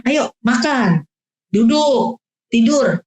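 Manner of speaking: brisk, simple one-word orders; short commands. Shown as a demonstration. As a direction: keep it short and clear.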